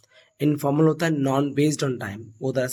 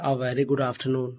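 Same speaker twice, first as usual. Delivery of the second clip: slow model greeting; much slower than usual. Shown as a demonstration. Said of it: "इसकी जगह पे हम लोग बोल सकते हैं".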